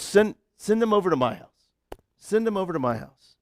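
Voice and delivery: a hint of a calm prophet. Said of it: "and he goes".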